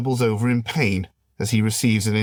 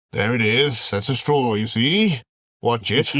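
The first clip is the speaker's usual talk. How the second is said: gloating film villain. Acted. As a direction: savour the threat like a movie baddie. Alien shows the straw.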